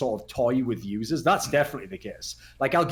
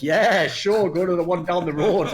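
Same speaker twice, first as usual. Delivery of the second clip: laughing mock reply; 4 semitones higher, 4 dB louder, slower than usual. Shopkeepers humouring a newbie.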